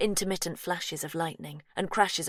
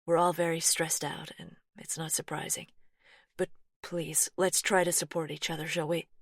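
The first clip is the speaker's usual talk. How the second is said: soft reassurance. Acted. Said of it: "Laurie's voice softens further".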